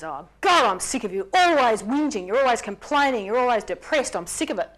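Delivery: husband lashing out at his crying wife, loud and exasperated; fed-up anger. Retold or imitated. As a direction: throw the complaints at her, loud and fed up. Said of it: "zips into even more anger and says".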